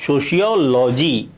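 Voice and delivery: सोशियोलॉजी as so-shi-yo-lo-ji with a clear sh; correct pronunciation. Shown as a demonstration. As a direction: model the right सोशियोलॉजी for the students. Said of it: "ये इसका सही उच्चारण है".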